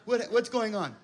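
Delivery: high, panicked gasping at the phone; mock panic. Seeing five missed calls, a mock panic. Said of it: "it's just like".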